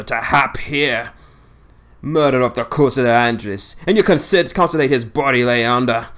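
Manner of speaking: lightly voiced old seaman in thick dialect, scornful; a hint of a crusty old fisherman railing against lies; old Yorkshire sailor. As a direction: grumble it like a cantankerous old salt holding court. Swales continues.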